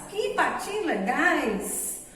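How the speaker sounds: slow, delighted exclamation. Shown as a demonstration. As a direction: sound thrilled at the little ducks. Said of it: "ponto de exclamação".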